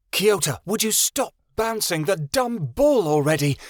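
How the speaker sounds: a high, loud yell from another room; fed-up sister yelling at a brother; sharp scream. A narrator's reading. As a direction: shout it across the house in exasperation. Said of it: "a sharp female voice screamed".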